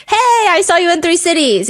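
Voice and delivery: high-pitched mock fan call; excited fan greeting. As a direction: imitate a fan gushing hello.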